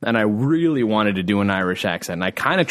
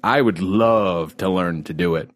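ordinary talk

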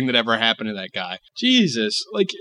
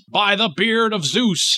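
mock oath; 6 semitones higher, slower than usual. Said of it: "it would sound funny".

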